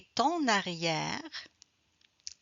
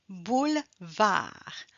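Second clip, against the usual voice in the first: "Boulevard" said slowly, each sound clear; slower than usual. Shown as a demonstration. Teacher slowing the word for students to copy. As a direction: draw out "Boulevard" for learners. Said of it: "On ne prononce pas le E".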